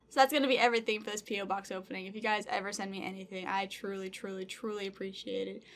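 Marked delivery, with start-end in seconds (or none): none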